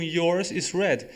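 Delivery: slow recap of the example; slow demo. Shown as a demonstration. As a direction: repeat the model slowly. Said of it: "Eu só falei um".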